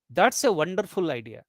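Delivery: "That's a wonderful idea" run together, falling to a pause after "idea"; no break inside "That's a wonderful idea"; one tone group. Shown as a demonstration. Teacher repeats the example sentence, "That's a wonderful idea" in one breath group. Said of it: "we are taking the pause".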